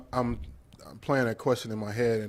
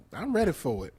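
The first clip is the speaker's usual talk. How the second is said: high voice; 2 semitones higher than usual. Real, not acted. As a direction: voice pitched up a touch. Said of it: "why your voice all high, though?".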